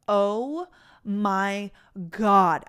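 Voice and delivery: "Oh my" held back, then a loud "God"; finding the dog's tooth in the water dish, shocked. Retold or imitated. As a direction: gasp it out as the shock hits.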